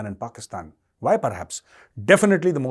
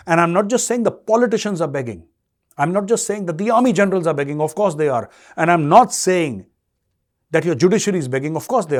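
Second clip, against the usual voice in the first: louder, hammering each clause; heated raised voice; 4 semitones higher, 5 dB louder than usual. Real, not acted. Commentator accusing Pakistan's institutions, heated raised voice. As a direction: build the accusation, pressing hard.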